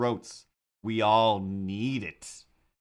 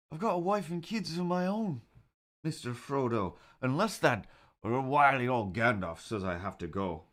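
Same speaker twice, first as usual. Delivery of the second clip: bad Samwise impression; 6 semitones higher than usual. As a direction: play a timid, devoted Sam pleading with Frodo, pitched way up. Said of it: "that's not a good impression".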